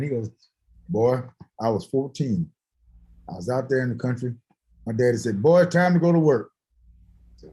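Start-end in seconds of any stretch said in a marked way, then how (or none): 0.9-6.5 lightly voiced old bluesman, slightly lower; imitating a blues singer. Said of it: "I'm trying to affect his voice".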